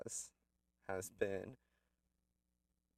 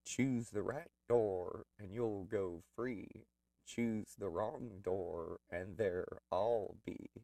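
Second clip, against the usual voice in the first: haunting voice. Retold or imitated. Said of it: "this ghostly voice comes over the T V".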